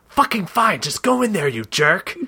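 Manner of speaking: put-on irritated creature voice; fed-up door. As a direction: give in grudgingly as an annoyed door.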